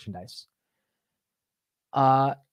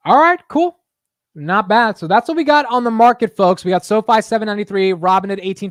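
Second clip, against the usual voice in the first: loud, higher cheerful wrap-up; upbeat; 8 semitones higher, 8 dB louder than usual. Real, not acted. Streamer kicking off the market recap for folks, bright and loud.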